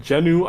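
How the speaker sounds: "Genu" said as JEN-oo; two-beat "Genu" with an oo ending; quoted mispronunciation. Retold or imitated. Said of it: "one guy said".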